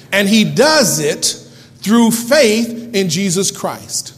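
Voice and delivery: slow, punched Bible reading; deliberate pulpit proclamation; emphatic scripture reading. Acted. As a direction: read in weighty phrases with pauses. Reads scripture with preaching force.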